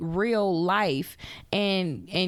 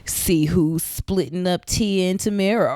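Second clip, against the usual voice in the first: clickbait headline; 4 dB louder than usual. Retold or imitated. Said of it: "be like".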